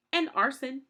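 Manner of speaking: a high, cheeky interjection; piping up. A narrator's reading. Count Olaf adding a crime, piped up high. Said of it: "Count Olaf piped up".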